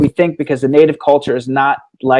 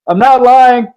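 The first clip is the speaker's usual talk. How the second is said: laughing; 9 semitones higher, 5 dB louder, slower than usual. Retold or imitated. Homeless man quoted, laughing.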